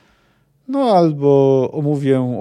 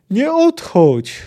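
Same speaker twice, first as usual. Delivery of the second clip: high, loud, slow pleading shout; child's pleading cry; 9 semitones higher, 5 dB louder, much slower than usual. Acted. Ciri begs riding-away Geralt, slow high loud plea. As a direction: stretch out the plea so he stays.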